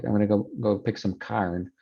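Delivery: lightly voiced rural Utah accent, corn as carn; casual Utah farm talk, carn for corn. Shown as a demonstration. Teacher mimics rural Utah speech. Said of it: "is pronounced carn".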